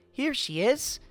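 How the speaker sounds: high, bright announcing voice; presenting proudly. Acted. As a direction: announce her with a flourish. Young man presents princess, voiced.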